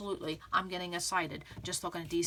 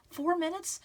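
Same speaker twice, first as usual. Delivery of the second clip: mock disbelief; 10 semitones higher, 4 dB louder than usual. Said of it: "You're like".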